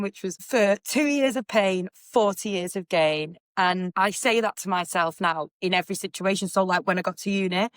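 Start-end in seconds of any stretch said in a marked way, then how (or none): 0.4-3.4 slow, measured saying; teacher's motto. Retold or imitated. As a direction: recite it slowly like a mantra. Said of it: "she used to tell us this thing".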